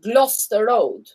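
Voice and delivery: "Gloucester" said as GLOSS-ter; two syllables for "Gloucester": GLOSS-ter; British pronunciation. Shown as a demonstration. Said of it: "they say it".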